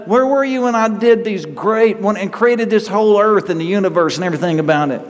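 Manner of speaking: God challenging Job. Retold or imitated. Preacher voicing God, continued.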